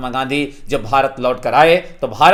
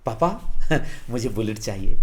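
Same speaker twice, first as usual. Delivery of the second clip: sweetly coaxing; 4 semitones lower than usual. Pretend. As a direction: wheedle dad gently for the bike. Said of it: "आप प्यार से बोलेंगे".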